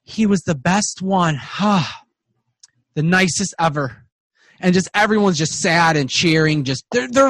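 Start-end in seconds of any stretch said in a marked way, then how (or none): 0.0-4.0 tender dwarf, drawn out and a bit higher; really nice dwarf. Acted. Dwarf remembers a lost friend, really nice voice. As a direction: remember him fondly, slowly. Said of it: "you hear the voice is really nice".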